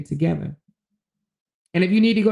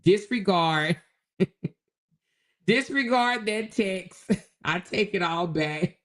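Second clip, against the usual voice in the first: sheepish laughing retraction; slower than usual. Retold or imitated. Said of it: "to say".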